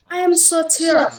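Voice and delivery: I AM SO TIRED, pitch dropping at the end; demonstrated falling tune on "tired"; falling intonation. Shown as a demonstration. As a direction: bring "tired" down to close. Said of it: "falling intonation".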